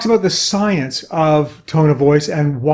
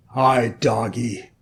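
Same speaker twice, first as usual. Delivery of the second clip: lower, softer and slow, nervous; timid greeting; 6 semitones lower, 5 dB quieter, slower than usual. Acted. Walker greeting a drooling guard dog, soft slow timid voice. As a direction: tiptoe the words out to a big dog.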